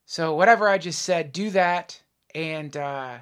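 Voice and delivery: announcer-style intro read; podcast host intro. Acted. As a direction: introduce the guest like a show host.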